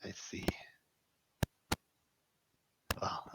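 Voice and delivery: hushed whisper. Acted. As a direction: keep it under your breath. NPC replies in hushed voice.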